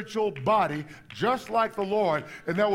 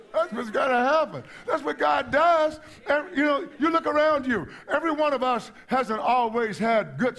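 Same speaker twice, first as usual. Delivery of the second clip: higher, emphatic preacher's delivery; impassioned preaching; 4 semitones higher than usual. Real, not acted. Preacher telling the audience that's what God does, impassioned preaching. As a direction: drive it home to the congregation.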